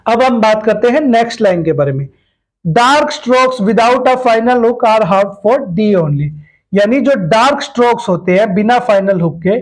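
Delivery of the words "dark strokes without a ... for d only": slow dictation. Shown as a demonstration. Reading the rule out slowly.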